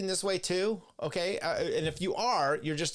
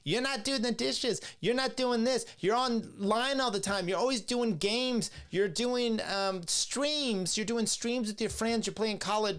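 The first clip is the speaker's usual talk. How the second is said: whining wife; 7 semitones higher than usual. Retold or imitated. Streamer imitating a nagging wife complaining about games. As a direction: nag him in a shrill whiny wife voice. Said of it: "This is how she argues with him".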